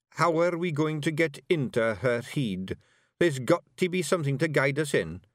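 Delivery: rowdy little Scots pixie voice; broad Scottish accent. Acted. Willie asks.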